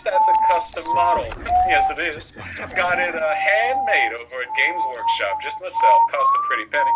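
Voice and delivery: very high, loud falsetto Southern Belle. Retold or imitated. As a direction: squeal it like an over-the-top Southern lady. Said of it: "We were doing a Southern Belle".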